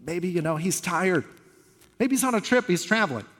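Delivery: teasing, rising mockery, peaking high on "on a trip"; playful sarcastic jab; mocking taunt. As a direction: taunt the false prophets lightly. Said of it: "He starts kind of mocking them".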